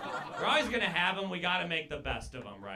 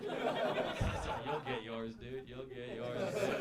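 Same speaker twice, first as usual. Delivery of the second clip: slow, lightly voiced Jesus, ominous promise; a hint of a solemn Jesus warning; Jesus impression; 3 semitones lower, much slower than usual. Comic doing Jesus warning the crowd, slow and lightly voiced. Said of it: "my impression of my Lord and Savior".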